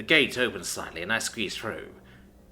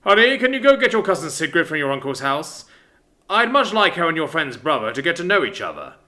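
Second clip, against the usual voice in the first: father voice; 4 semitones higher, 6 dB louder than usual. Acted. Father to daughter.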